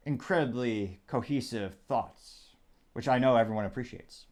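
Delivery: dry, slowed sarcasm on the self-praise; sarcastic. Real, not acted. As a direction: praise your own thoughts with deadpan irony. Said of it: "that's kind of sarcasm there".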